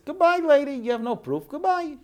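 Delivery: high, loud curt dismissal; mock curt king; dismissive. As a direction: wave her off like a boss.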